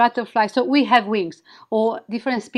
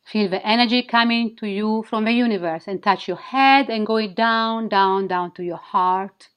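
sultry narrator. Acted. Leads a guided wing activation.

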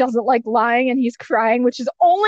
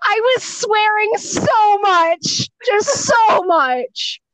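laughing; 8 semitones higher, much slower than usual. Real, not acted. Recalling her swearing, laughing.

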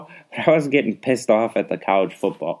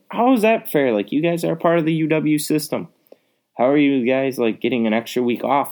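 indignant outburst; 6 semitones higher than usual. Retold or imitated. Complaining to friends about unfair breaks, exasperated. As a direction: throw up your hands at the unfairness. Indignant rant, quoting own reaction.

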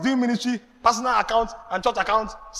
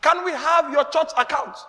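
gushing church member; 9 semitones higher, 4 dB louder than usual. Retold or imitated. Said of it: "So I said".

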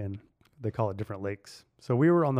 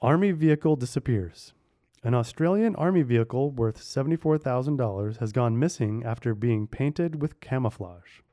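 measured headline-reading voice; clear, deliberate news delivery. Real, not acted. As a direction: read it out like a newsreader.

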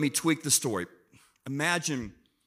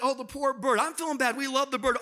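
mock upset wife; 7 semitones higher than usual. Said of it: "Lisa's upset".

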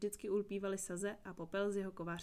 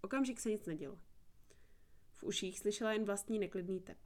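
ordinary delivery, nothing marked

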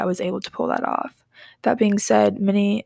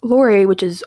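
whisper; 5 dB louder than usual. Real, not acted. Starting the creepy story.

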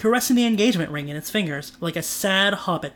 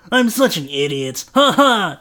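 louder laughing at himself; 5 dB louder than usual. Acted. Trent laughing at himself with relief. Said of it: "Trent laughed".

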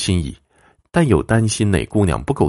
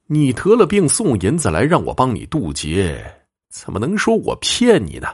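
higher-pitched, wide-eyed disbelief; puzzled protest; 6 semitones higher than usual. Acted. Fortune-teller answering an angry client, puzzled and higher-pitched. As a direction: protest as if baffled by the accusation. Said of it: "司马云觉着奇怪".

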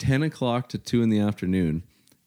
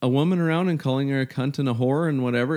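high, raised-voice challenge; imitated heated outburst, loud and high; retold yell; 8 semitones higher, 3 dB louder than usual. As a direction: re-enact yelling at a bystander, pitched way up. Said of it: "And I yell at her".

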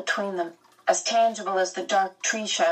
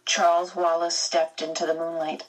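ordinary talk, nothing marked

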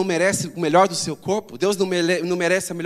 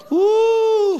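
high ecstatic whoop; 14 semitones higher, 6 dB louder than usual. Pretend. Demonstrates fan-like worshipper.

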